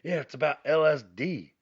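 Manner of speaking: a light imitation of a know-it-all daughter. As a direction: tell dad the secret. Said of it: "she goes".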